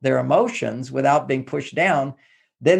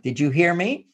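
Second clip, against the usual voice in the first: mock nagging wife; 5 semitones higher than usual.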